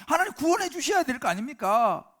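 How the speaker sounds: loud, high, insistent demand; believer's complaint to God. Pretend. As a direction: press God for rescue, aggrieved. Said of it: "우리도 그렇게 말할 때가 있잖아요".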